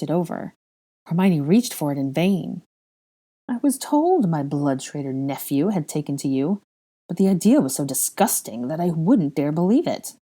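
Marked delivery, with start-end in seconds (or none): 3.5-10.2 haughty, disgusted sneer; scornful aristocratic villain. Acted. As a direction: punch the key words with contempt. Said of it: "Bellatrix sneered".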